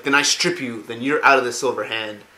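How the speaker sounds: retold anger. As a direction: pull rank, mildly pissed off. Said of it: "Arthas is pissed at Uther".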